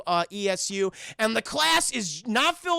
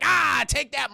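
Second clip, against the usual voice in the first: higher mock battle cry; triumphant attack; 4 semitones higher, 4 dB louder, slower than usual. Retelling Blade attacking Morbius with lights, triumphant. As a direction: cry out as you strike. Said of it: "and he's like".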